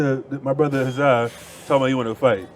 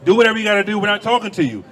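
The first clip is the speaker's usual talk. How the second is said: louder and higher, a heated telling-off; angry yelling; 5 semitones higher, 3 dB louder than usual. Real, not acted. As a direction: shout her down, furious and dismissive. Yelling at the woman who interrupted.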